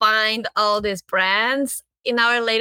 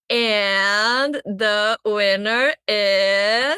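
suspenseful awards presenter; much slower than usual. Real, not acted. Awards reveal, slow drawn out.

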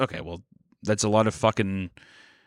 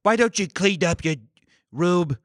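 higher stilted AI-written mobster dad; Tony Soprano; 6 semitones higher than usual. Acted. Imagining AI Tony Soprano scolding his son, stilted mobster dad. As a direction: scold your son in halting, oddly paced chunks. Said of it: "Tony Soprano being like".

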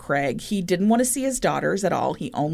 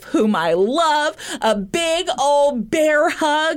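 mock husband voice; 8 semitones higher than usual. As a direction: play the whiny excuse-making husband. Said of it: "he was like".

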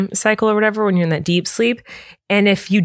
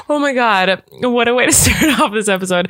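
after laughing hard; 3 semitones higher than usual. Real, not acted. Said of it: "My face hurts from laughing".

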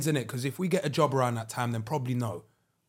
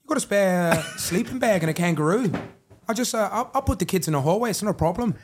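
Australian accent; 2 semitones higher than usual. Shown as a demonstration. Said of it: "I thought you wanted me to do the accent".

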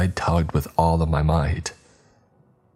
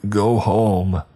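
slow, higher, trembling plea; shaky warning; 4 semitones higher, slower than usual. Acted. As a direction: beg her to leave, frightened. Terrified husband warns his wife.

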